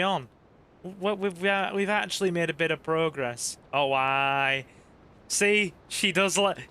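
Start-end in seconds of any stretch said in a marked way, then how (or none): 3.7-4.7 a light Northern English "Oh, aye". Retold or imitated. Streamer voicing his wife with a light Northern English "aye". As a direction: drop into a broad Northern "aye". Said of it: "the Northern's coming out in her".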